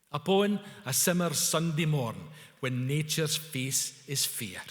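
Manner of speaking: measured poem recital, slowing at the end; declaiming. A narrator's reading. Customs official recites Burns to Wally, declaiming. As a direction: declaim it like opening verse. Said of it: "proceeded to declaim the opening lines".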